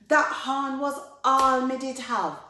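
loud, high-pitched protest; indignant complaint. Acted. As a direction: wail loudly over your loss. Anansi protests losing his horn.

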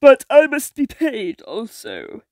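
sea witch voice. Acted. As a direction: witch demanding her fee. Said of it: "said the witch".

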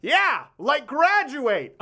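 high, very slow laughing mock yell; dad yelling. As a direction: heckle the screen through laughter. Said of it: "my dad yelled out".

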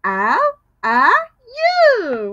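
spaced out, one word at a time; slow word by word. Shown as a demonstration. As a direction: say each word separately. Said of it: "I'm asking you".

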